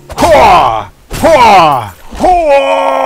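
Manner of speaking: loud gung-ho battle shout; barbarian war cry. Pretend. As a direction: roar it like a charging barbarian. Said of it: "I'm a barbarian".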